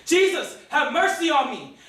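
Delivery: high, all-out cry for mercy; loud, desperate, defiant plea; shouting defiantly. Acted. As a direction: yell over the crowd as loud as you can. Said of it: "shouted out against the crowd as loud as I could".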